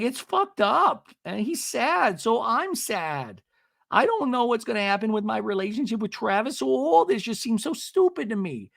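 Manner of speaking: hammed-up high, wailing complaint; upset complaint. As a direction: act out her upset up high. Retold upset woman in quarrel.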